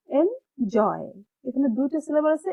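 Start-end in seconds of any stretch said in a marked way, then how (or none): 0.1-1.1 এনজয় split, এন light and জয় stretched; stressed second syllable. Shown as a demonstration. Teacher repeating the example for students, stress on জয়. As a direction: lean on জয় in এনজয়, pitch arched then falling. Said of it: "একটা আমরা আস্তে পড়বো আর একটা".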